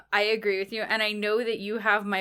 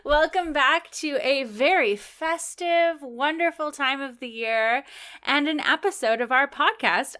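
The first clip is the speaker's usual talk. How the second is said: festive intro; 2 semitones higher than usual. Acted. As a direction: open the show full of holiday cheer. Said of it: "take it away".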